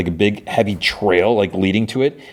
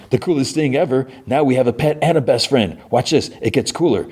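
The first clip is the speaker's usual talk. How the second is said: a lightly voiced kid, higher and giddy; excited Pugsley; 6 semitones higher than usual. Pugsley bragging to Eugene about his new pet, mildly excited. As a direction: show off the zombie like a thrilled kid brother.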